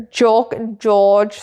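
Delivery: demonstrating German-accented vowels. Shown as a demonstration. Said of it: "sound very similar in German accent".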